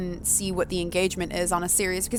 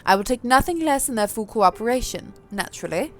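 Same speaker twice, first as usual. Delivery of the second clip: put-on posh accent; 3 semitones higher than usual. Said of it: "give Sophie a slightly different accent".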